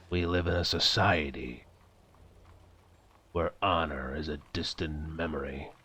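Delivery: Snyder Cut Joker. Pretend. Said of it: "that's the Joker from the Snyder Cut".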